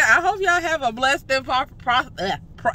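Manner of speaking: stumbling over a numb mouth. Real, not acted. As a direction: trip on the word prosperous. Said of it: "see, look at this".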